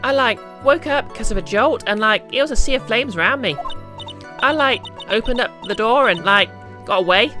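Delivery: put-on high bubbly Valley Girl voice; Valley Girl accent, lots of like. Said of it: "Valley Girl accent".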